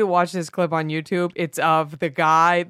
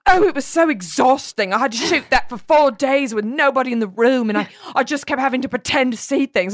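slightly raised, mock-weary gripe; complaining; 4 semitones higher than usual. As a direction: imitate an actress moaning about work.

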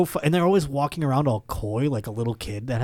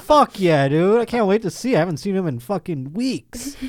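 higher, louder stoked cheer at the news; fired up like the party just got good; hyped-up party bro; 7 semitones higher, 5 dB louder than usual. Retold or imitated. Hyped partygoer greeting Kool-Aid guy.

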